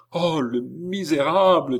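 high-pitched horrified outcry; indignation horrifiée. A narrator's reading. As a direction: denounce him in horror, voice lifted. Girl recoils in horror at intruder. (exclamation horrifiée, voix haute)

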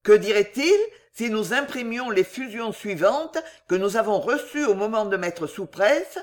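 pompous newspaper-article reading; read aloud. A narrator's reading. Winkle reading the hostile article aloud, pompous declaiming. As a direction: declaim the scathing editorial.

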